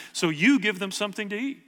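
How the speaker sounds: "you" lifted, phrase rising at the end; stress on YOU. Acted. Jesus answering about the hungry crowd, stress on "you". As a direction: hand it back to them on "you". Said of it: "the emphasis is on the word you".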